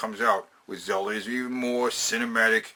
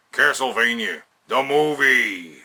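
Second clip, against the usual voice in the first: slow, louder, drawn-out trailer announcement; movie trailer announcer; 5 dB louder, slower than usual. Acted. Vlogger announcing his dream film title, slow trailer-voice boom.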